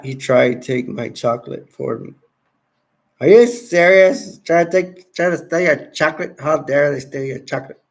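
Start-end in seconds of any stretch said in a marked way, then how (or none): 3.2-6.4 loud outraged disbelief; incredulous. Real, not acted. Outraged at chocolate theft.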